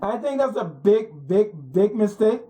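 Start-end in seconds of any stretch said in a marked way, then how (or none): 1.3-2.4 big, big leaned on, each one pressed; stress on big. Shown as a demonstration. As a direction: hit the word big every time. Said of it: "put the emphasis on the word big".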